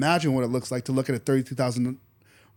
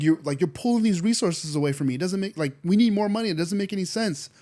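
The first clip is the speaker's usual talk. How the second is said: higher, mock-indignant complaint to God; acted-out frustrated objection; exasperated protest; 5 semitones higher than usual. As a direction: argue your case, pitch climbing. Imagined protest to God about resources.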